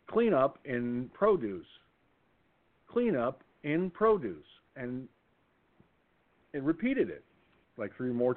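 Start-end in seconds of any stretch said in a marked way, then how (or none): 0.1-1.7 slow, drawn-out loudspeaker call; store PA announcement. Retold or imitated. Store loudspeaker calling staff to a spill, slow PA voice. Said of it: "an announcement came over the loudspeaker". 2.9-4.5 slow, drawn-out loudspeaker call, repeated; store PA announcement. Retold or imitated. Store loudspeaker repeating the spill call, slow PA voice. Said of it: "an announcement came over the loudspeaker".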